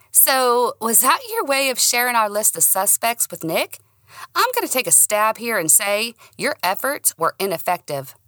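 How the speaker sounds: lightly voiced sassy friend; teasing friend. Daniel teasing voice.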